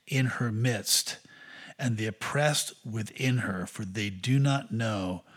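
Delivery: measured, deliberate Bible reading; solemn public reading of scripture. Acted. Reads scripture aloud.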